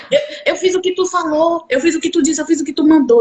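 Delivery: high and giddy, half laughing; imitating a friend laughing with joy; laughing excitement. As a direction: gush it out through laughter. Friend bursting with the result.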